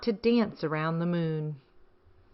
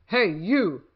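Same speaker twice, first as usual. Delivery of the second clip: grouchy ladybug; 4 dB louder than usual. Acted. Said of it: "said the grouchy ladybug".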